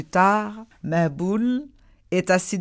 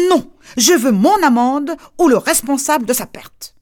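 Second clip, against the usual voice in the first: stubborn demand; 2 semitones higher, 4 dB louder than usual. Acted.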